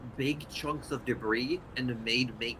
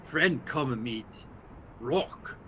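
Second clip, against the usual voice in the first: simple creature voice; slower than usual. Acted.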